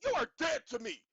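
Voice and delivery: loud, hammed-up declaration; mock dramatic shout. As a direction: throw it out like a soap opera curse. Mock skit outburst.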